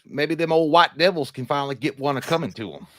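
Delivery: put-on folksy Southern-accent grumbling; lightly hammed-up Southern accent. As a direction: play it as a Southerner. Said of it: "get down in that Southern accent".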